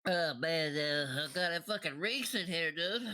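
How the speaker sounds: character voice with a pinched nose. Acted. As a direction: talk as if your nose is pegged shut. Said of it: "doing a voice on a voice".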